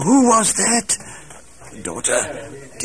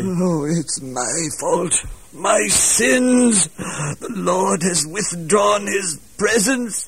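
slow, broken lament; grieving; slower than usual. Acted. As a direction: mourn in despair. Eli grieves the lost Ark.

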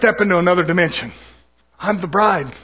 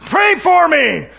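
higher, slow begging plea; pleading woman; 8 semitones higher than usual. Retold or imitated. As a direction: beg the prophet for a child. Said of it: "they pleaded".

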